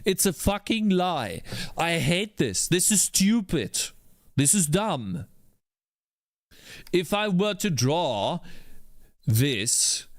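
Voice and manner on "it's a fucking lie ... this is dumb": angry rant. Real, not acted. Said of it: "I'll show you why I'm angry".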